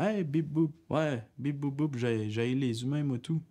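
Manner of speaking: lightly done robot voice. Pretend. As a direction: beep boop like a pretend robot. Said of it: "je vais faire à semblant que je suis un robot". (voix de robot légère)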